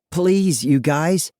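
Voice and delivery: high-pitched plea; begging. A narrator's reading. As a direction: plead with your tormentors, voice lifted. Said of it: "I beg".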